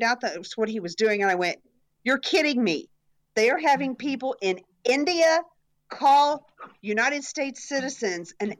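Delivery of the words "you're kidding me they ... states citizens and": retold disbelief, pitched a little up; mock-astonished pushback; incredulous retort. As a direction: play back an astonished objection to a caller. Retold incredulous reply to caller.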